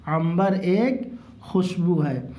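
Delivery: very slow, drawn-out primer reading with long vowels; model reading. Shown as a demonstration. Teacher models primer sentences for pupils, slow drawn-out reading. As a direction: stretch each word for learners to follow.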